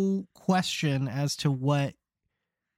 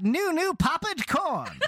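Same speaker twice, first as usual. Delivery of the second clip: stadium vendor hawking; 6 semitones higher, slower than usual. Pretend. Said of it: "vendor call".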